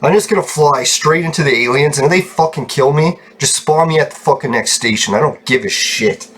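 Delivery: fed-up, reckless venting; real exasperated grumbling; really pissed. Real, not acted. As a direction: rant as if past caring. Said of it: "I'm just getting really pissed".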